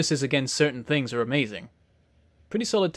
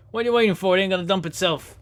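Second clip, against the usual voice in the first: put-on Jersey accent; 2 semitones higher, faster than usual. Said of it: "I had to do the accent".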